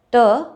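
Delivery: T without a puff of air; Indian-language T. Shown as a demonstration. Teacher contrasting native languages with English, Indian T. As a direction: say T unaspirated, tongue further back. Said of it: "in our native languages".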